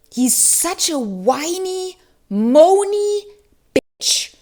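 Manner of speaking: mocking disgust, bitch breathed out; exasperated insult. Real, not acted. Reviewer venting about the whiny character, exasperated. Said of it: "He makes me so angry".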